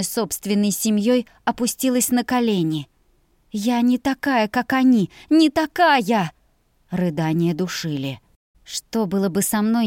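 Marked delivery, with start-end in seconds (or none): 3.5-6.3 desperate insistence. A narrator's reading. Sobbing denial on her knees.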